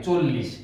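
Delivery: চল্লিশ as "chol-lish", closed o; correct o-vowel form. Shown as a demonstration. Teacher confirming চল্লিশ for learners, chol-lish with o. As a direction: round the first vowel of চল্লিশ to o. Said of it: "ওকার দিয়ে".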